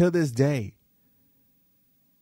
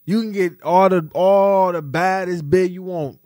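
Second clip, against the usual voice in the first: incredulous call-out; 4 dB louder than usual. Retold or imitated. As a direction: hype him up, almost shouting. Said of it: "I'm like".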